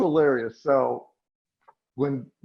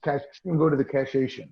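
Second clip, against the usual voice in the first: mock Chicago accent; faster than usual. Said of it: "with the Chicago accent".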